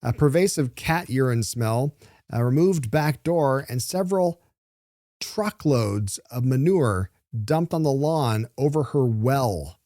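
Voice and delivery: slow, emphatic newsreader list; deliberate, weighty reading of the copy; dramatic news read. Real, not acted. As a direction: spell out each damage slowly for effect. Host reads list of damages.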